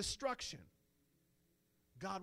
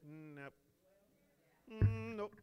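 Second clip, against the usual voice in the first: God saying no; 3 semitones higher, 6 dB louder, slower than usual. Retold or imitated. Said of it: "God said".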